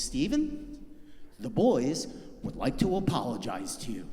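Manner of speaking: lightly voiced mom, firm and formal. Mom calling uncle with a formal apology, stern mom tone. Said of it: "she has that mom tone".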